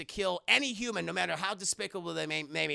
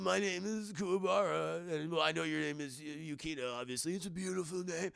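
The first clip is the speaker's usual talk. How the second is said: lightly acted, softened suitor's voice; a hint of a shy admirer; bashful suitor; 3 semitones lower, 6 dB quieter than usual. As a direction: introduce yourself, dropping softer and lower as you compliment. Voicing bashful exhausted Kuwabara.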